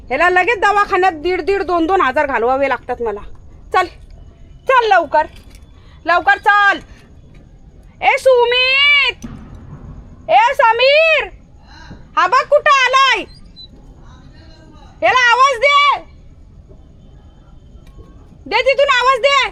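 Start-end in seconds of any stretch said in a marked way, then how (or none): 3.7-6.8 urging call. Real, not acted. Urging the dog to come. 8.0-19.4 high, loud call across the house; loud, high, long-drawn calls to people far away. Real, not acted. Calling out to Sumit, Sameer.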